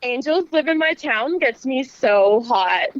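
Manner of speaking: slow, breathy sexy promo voice; sultry narrator. Acted. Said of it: "Just do one more take for him".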